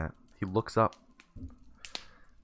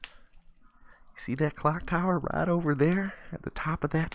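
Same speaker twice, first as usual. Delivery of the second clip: storytelling homeless man; 4 semitones higher than usual. Acted. Homeless man directs kid to the bell tower, lightly voiced folksy guide. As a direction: stretch and lilt the directions like an old hand.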